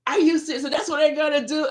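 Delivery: very high mock disbelief, quickening; hammed-up retold incredulity; incredulous husband.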